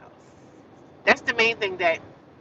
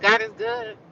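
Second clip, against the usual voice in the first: high exclamation. Real, not acted. Sudden exclamation.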